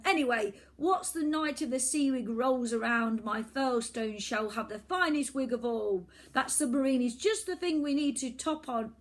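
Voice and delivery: put-on high, loud blustering boy; boastful villain boy. Boy villain blusters about his name and the wreck, high and loud. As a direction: bluster your plan.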